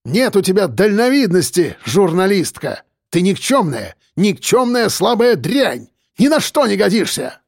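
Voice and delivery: mayor berates the journalist with furious insults. Acted. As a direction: spit out each insult.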